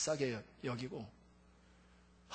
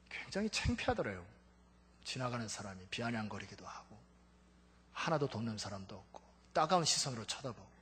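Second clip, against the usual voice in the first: normal talking voice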